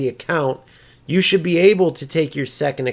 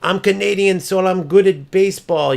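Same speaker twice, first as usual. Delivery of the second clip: slightly raised, higher parody voice; mocking boast; 4 semitones higher, 3 dB louder than usual. Streamer parodying rival's logic with baseball, mocking higher voice. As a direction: parody a silly boast, pitched up a little.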